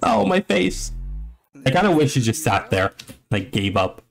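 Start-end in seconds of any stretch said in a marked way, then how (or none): 0.0-0.9 high, hammed-up cries of dismay; cartoonish high yelp going from cheer to alarm; mock panic. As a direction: play the player realising he's about to faceplant. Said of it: "It's like".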